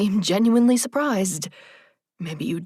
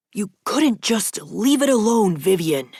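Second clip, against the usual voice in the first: a mild held-back yell; angry but keeping it down; hushed but furious; 3 semitones higher, 3 dB louder than usual. A narrator's reading. Edward snapping at Vivian in a stairwell, mildly hushed fury. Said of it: "Edward yelled, hushed but furious".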